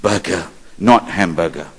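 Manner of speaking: Berger with a hard G, as in hamburger; quoted name correction. Retold or imitated. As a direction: say Berger as "BER-guh", set against hamburger. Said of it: "Pronounce, call me".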